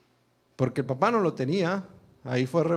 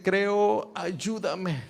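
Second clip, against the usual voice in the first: higher, urgent plea; crying out; 6 semitones higher, much slower than usual. Acted. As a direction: call out for help. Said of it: "clamó". (el padre clama a Jesús, más agudo)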